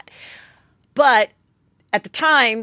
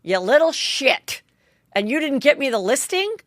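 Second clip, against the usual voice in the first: dramatic mom; 5 semitones higher than usual. Retold or imitated. Tipsy realtor mom scolding her son, dramatic mock outrage. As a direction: play the tipsy diva mother. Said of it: "put her drink down in a dramatic way".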